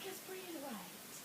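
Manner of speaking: very soft, slow coaching voice; hushed mock-nurse instruction; calming nurse. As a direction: soothe slowly, barely voiced. Voices nurse coaching her breathing.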